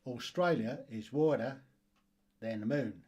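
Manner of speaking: lightly put-on Australian accent; Aussie accent. Quiz host reading a question about Australia, mock Aussie accent. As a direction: read it with a touch of Aussie twang. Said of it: "Did you like my Aussie accent there?".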